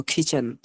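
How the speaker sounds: কিচেন said as "khi-chhen". Shown as a demonstration. Teacher reinforcing the new reading, kh-like K. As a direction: start কিচেন on an airy kh. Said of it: "খর মতো".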